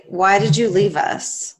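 slow, mock-wounded plea; mock dramatic. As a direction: pretend to be hurt and abandoned. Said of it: "So for real".

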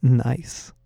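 put-on leer at the girls with one word; sneering. A narrator's reading. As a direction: creep eyeing the girls, soft sneering leer. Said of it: "Bradley sneered".

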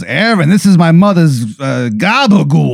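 proud host offering his mother's gabagool; a hint of a mobster. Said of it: "He goes, he goes".

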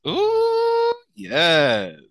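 squealing with laughter; delighted laughing yes. Real, not acted. Host delighted by nickname.

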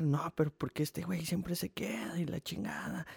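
whispered, whiny mock of a coworker. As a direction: hiss the complaint softly, mocking him. Mocking a coworker's complaint. (susurro burlón imitando al compañero)

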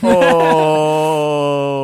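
long, loud held "oh"; drawn-out high siren-like wail; mock wail. Mock alarm wail in sketch.

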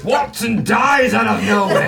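overacted death scene. Mock sudden death at the table.

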